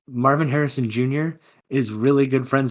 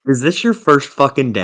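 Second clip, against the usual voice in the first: exasperated scolding; 3 semitones higher, 6 dB louder than usual. Real, not acted. Berating co-host over mic blunder.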